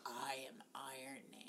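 hushed whisper. Shown as a demonstration. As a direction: breathe the line in a whisper. Softly quoting the movie line.

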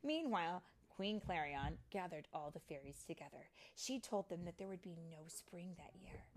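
understated storytime narration; story narration for children. A narrator's reading. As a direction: read the grave news to little ones.

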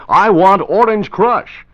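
want stretched and punched, slow and loud; stress on want. Shown as a demonstration. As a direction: lean hard on want in I want Orange Crush. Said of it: "Never say orange. Say".

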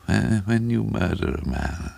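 halting and wet, drawn out; bubbling impediment. A narrator's reading. Little man explaining murder, slow with a bubbling impediment. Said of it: "a little bubble in his speech like an impediment".

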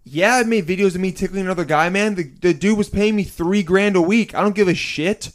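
emphatic, mock-indignant hypothetical reply; defiant mock retort. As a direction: play at brushing off the criticism. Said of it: "I'm saying I would say".

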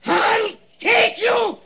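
high, slow, crazed shouting; mad laughing scream. Acted. Dying man raving, blind.

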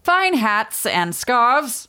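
slow, high mock shopkeeper voice; Chillingsworth. Co-host plays a haberdasher touting wares, slow hammed-up voice. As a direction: draw out the sales pitch in character. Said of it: "trying to do a Chillingsworth voice".

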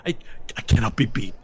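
villainous indignant protest; defiant sore loser. Acted. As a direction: refuse to accept defeat, accusing your rival. Beaten character protests his defeat.

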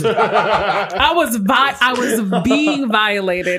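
slow, laughing mock complaint; laughing through it. Real, not acted. Joking to friends about the game, laughing slowly. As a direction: drag it out, laughing.

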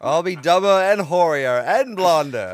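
loud, slow, hammed-up vow; defiant starlet. Starlet vowing to Hollywood, loud mock defiance. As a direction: belt it out as a showy boast.

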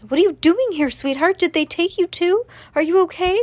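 high, loud, anxious mother; worried mother calling out, pitched high; sick with worry. A narrator's reading. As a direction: fire anxious questions at your child. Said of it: "Her mother sounded sick with worry".

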